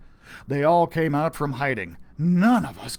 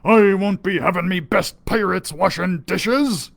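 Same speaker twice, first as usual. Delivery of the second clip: pirate captain; 2 semitones higher, 5 dB louder than usual. Acted. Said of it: "Captain Stinkybeard said".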